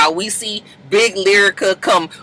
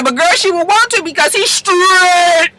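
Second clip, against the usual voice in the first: laughing quip; 8 semitones higher than usual. Retold or imitated. Paris quipping.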